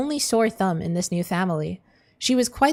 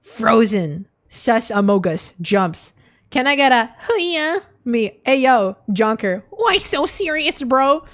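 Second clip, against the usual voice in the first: mock dramatic; 2 semitones higher, 5 dB louder, slower than usual. Reading silly chat message aloud.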